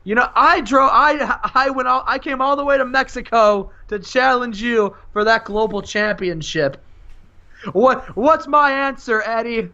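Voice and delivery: high-pitched challenger's promo. Acted. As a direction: act out an insistent wrestling challenge. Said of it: "says afterwards".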